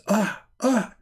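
high, open "ah" sounds; imitated yawn sound. Quoting the yawner before Shaitan laughs inside him, imitated yawn noises. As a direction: mimic someone opening up to yawn. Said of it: "from when he says".

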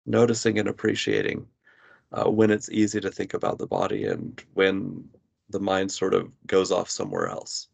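measured meditation guidance with long pauses; guided body scan. Real, not acted. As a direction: guide the listener gently into body awareness, pausing between phrases. Leads a body scan exercise.

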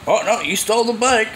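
a hint of a cop jumping to conclusions; mock cop accusing. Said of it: "him arresting me".

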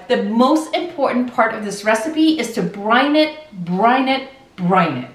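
repeating brine it with emphasis; insistent repetition. Shown as a demonstration. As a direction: hammer home brine it, brine it, brine it. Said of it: "Do not skip that step".

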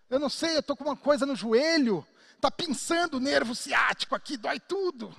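lightly hammed-up pained grumble; mock complaining of pain. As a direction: play up the aches like a grumbling patient. Voicing person complaining of pain.

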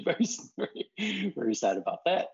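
sarcastic. Acted.

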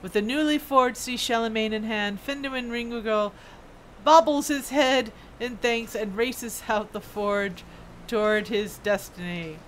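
slow, grand storyteller's flourish; dramatic story narration. Acted. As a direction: narrate it like an epic send-off. Reads quest narration with flourish.

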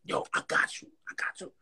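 whispered, unvoiced reassurance; hushed reassurance. Cuban hushing him over the passed-out rapper, whispered. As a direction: murmur it low, like a secret promise. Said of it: "he's like".

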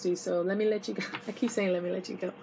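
hoarse, strained voice; losing voice. Real, not acted. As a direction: voice starting to give out. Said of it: "My voice is going".

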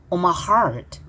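"heart" with R and T softened; weak R and T. Shown as a demonstration. Teacher showing students "heart", weak R and T. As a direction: let the final T of "heart" almost vanish. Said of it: "R과 T 발음 약하게".

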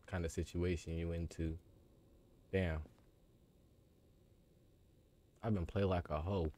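soft, low mutter; muttered to himself. Real, not acted. Gamer mutters as he realises the trap, low and soft. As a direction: mutter the realisation under your breath.

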